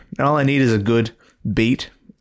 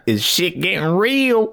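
dramatic announcer; 8 semitones higher, slower than usual. Pretend. Dramatic punchline.

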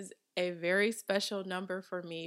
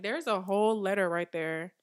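loud insistence, hammering "whole letter"; exasperated emphasis; 7 dB louder than usual. Retold or imitated. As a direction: point out the "whole letter" loudly, as if overlooked. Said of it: "I'm like".

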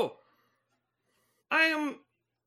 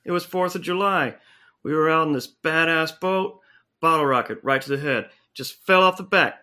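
much lower dude voice; alien-changed guy; 9 semitones lower than usual. Acted. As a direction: drop way down into a laid-back bro. Same low character.

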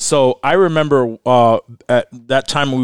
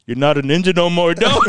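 laughing mock taunt; 4 semitones higher than usual. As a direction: shout the taunt while cracking up. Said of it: "and he goes".

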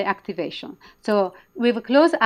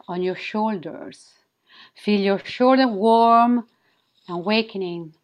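sultry narrator. Acted. Leads a guided wing activation.

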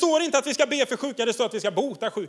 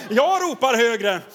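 repeated louder; 4 dB louder, slower than usual. Shown as a demonstration. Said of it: "Det var inte många amen där".

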